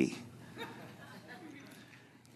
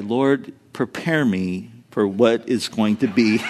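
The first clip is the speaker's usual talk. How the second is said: soft, lowered mock prayer under the breath; quiet prayer; 9 semitones lower, 4 dB quieter than usual. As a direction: pray it quietly, half joking. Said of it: "I would just pray".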